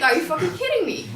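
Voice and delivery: loud, high, with a laugh of disbelief; furious laughing shout; outraged disbelief. Retold or imitated. Founder ignores her for groceries.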